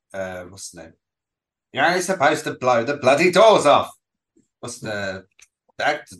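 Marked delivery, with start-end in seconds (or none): 1.7-3.9 Michael Caine. Retold or imitated. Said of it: "Michael Caine".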